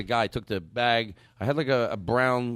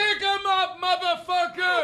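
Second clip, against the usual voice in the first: high, strained robber yell; shouted hold-up; slower than usual. Acted. Robber holding up a victim, shouted high. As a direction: yell it high, stretching the last word. Acted robbery, later called yelling.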